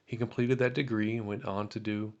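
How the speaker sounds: measured narration, lifting the start of sentences; reading aloud. A narrator's reading. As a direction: read a veteran's life story from a letter. Reads a veteran's biography aloud.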